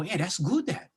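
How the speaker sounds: mild quoted nod of agreement; retold approval. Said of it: "we would go".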